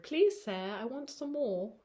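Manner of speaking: mock British plea; British accent. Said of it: "Is this British energy".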